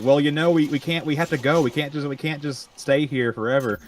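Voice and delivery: a hint of the guiding lady; lady again. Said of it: "then it's like".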